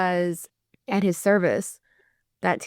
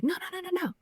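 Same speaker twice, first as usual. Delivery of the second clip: mock kid denial; 11 semitones higher, 8 dB quieter, faster than usual. Son denies eating meat sticks.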